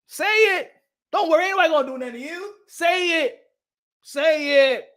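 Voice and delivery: high-pitched, insistent urging; egging on. Acted. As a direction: goad them loudly to speak up. Egging others on to declare pride.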